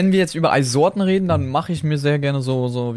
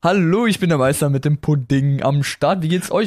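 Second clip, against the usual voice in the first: words round a spoonful; talking with pudding in mouth; chewing while talking; 2 semitones higher than usual. Real, not acted. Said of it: "Du isst Pudding?".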